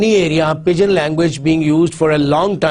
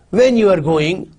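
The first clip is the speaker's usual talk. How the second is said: "When" stressed to make a question. Shown as a demonstration. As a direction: lean on "When", drawing the sentence out slowly as a question. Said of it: "you put stress on when".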